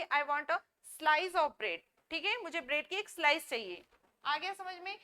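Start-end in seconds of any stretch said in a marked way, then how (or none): 0.0-1.8 each word spaced out slowly for students; slow model sentence. Shown as a demonstration. Teacher reading an example sentence for learners, slowly. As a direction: dictate it slowly. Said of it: "तो मैं क्या बोलूंगी".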